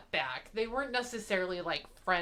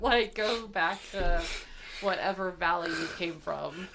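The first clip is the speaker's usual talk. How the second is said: put-on Valley Girl voice. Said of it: "doing your Valley Girl voice".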